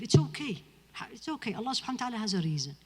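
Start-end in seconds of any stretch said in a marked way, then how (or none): 0.0-0.6 louder, higher, firm it's okay; firm permission. Real, not acted. Preacher tells distracted listeners firmly it's okay to leave. 0.9-1.5 much softer, reassuring it's okay; gentle reassurance. Real, not acted. Preacher softly reassures the crowd after telling them to leave.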